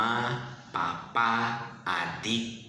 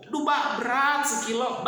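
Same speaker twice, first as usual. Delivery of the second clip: put-on whiny child; 9 semitones higher than usual. Child complaining, mimicked.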